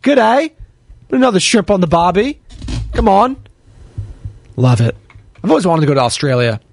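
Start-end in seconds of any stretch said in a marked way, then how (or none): 0.0-3.4 playful put-on Australian accent. Host greeting a Sydney chat listener, in an Australian accent. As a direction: greet them in a mock Aussie accent. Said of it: "Sydney, Australia".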